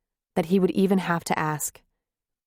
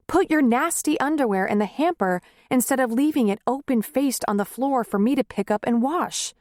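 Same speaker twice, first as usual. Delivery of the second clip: angry tirade; 5 semitones higher than usual. Acted.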